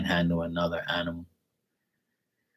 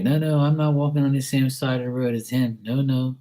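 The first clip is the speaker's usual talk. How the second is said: high mock frightened stranger; lightly voiced pedestrian backing off; a hint of a panicky person, higher; scared passerby; 5 semitones higher than usual. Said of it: "It's like".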